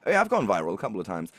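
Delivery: effeminate British dude. Retold or imitated. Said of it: "this incredibly effeminate British dude".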